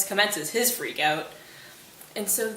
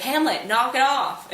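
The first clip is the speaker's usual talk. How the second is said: louder and slow, scolding; fed-up shout; 4 semitones higher, 6 dB louder, slower than usual. Retold or imitated. Horatio fed up, yelling at Hamlet to stop fighting. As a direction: bark it to end the brawl.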